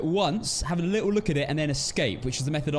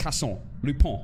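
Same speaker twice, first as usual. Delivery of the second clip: word said with a French accent; 2 semitones lower than usual. Recommending a French series, say its title with a French accent. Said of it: "my French accent".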